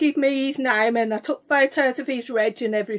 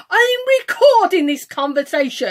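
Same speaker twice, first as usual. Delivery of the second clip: louder mock-officious announcement; mimicking arrogant man; 3 semitones higher, 5 dB louder than usual. Mimicking the driver recording their row, mildly arrogant. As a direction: lightly imitate a pompous driver. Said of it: "This is how he spoke".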